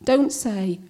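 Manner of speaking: measured comic poem with pointed pauses; poem recital. Acted. Poet addressing well-meaning acquaintances about cancer, wry recital. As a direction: recite it with lively, swooping intonation.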